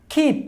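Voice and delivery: খিপ with a strong puff of air on the খ; aspirated keep. Shown as a demonstration. Teacher shows learners an aspirated খিপ. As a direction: breathe out on the খ of খিপ. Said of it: "কে রে আমরা খ উচ্চারণ করব".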